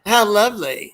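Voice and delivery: high, slow mock swoon; Stooge posing as a woman. Stooges dressed up as women, imitated in a high mock swoon. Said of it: "They said".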